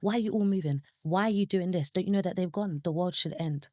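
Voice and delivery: mild, insistent mock shout; retold shout. Griever asking everyone why life goes on, mild retold shout. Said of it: "I just wanted to shout to everyone".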